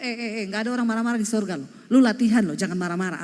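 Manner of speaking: fast teasing rebuke, a hint of nagging; mock scolding. Wife teasing her angry husband, quick mock scolding.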